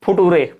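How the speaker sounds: फुटूरे said foo-TOO-ray, read letter by letter; wrong pronunciation. Shown as a demonstration. Teacher shows students misreading future as फुटूरे. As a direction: mispronounce फुटूरे as spelled. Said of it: "कोई पढ़ रहा फुटूरे".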